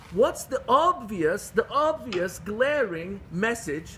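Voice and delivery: slow, weighty "obvious", leaned on and drawn out; stress on obvious. Real, not acted. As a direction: drag out "obvious" as if it should be plain to all. Rhetorical question to the congregation.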